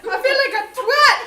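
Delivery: high, loud Cockney groan; mock British lad. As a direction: moan it like a London lad. Lad bit.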